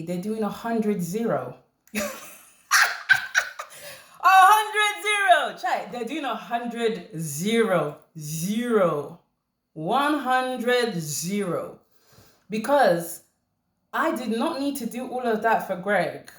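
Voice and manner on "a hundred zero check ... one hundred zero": mocking. Mocking repeat of the woman.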